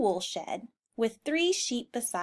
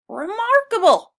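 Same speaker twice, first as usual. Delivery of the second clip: much higher, louder snorted word; high horse snort of wonder; 11 semitones higher, 10 dB louder than usual. Acted. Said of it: "snorted Mister Brown".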